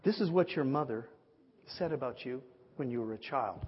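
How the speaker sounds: lightly voiced solemn minister, pausing mid-sentence; measured, mildly grand prophetic delivery; mighty man of God. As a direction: pronounce it with weighty pauses. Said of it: "you know, mighty man of God".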